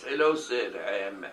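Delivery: a light mock of a posh old-film professor. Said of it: "he spoke like those professors speak in old black and white films".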